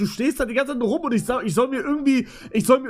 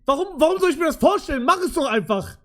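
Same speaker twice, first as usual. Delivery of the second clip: impatient outburst; 5 semitones higher, faster than usual. Real, not acted. Impatient with the app.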